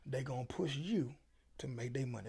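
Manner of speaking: slow, deliberate repeat for emphasis; slowed-down emphatic restatement; said again slowly. Shown as a demonstration. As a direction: spell it out word by word for the youngsters. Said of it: "I'm gonna say it again slowly".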